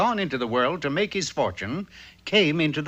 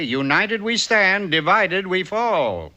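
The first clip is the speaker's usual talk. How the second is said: each phrase spelled out slowly; slow, emphatic motto; 3 semitones higher, slower than usual. Acted. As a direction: preach it like a proverb. Father recites a motto.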